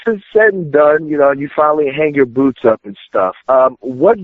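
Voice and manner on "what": ordinary talk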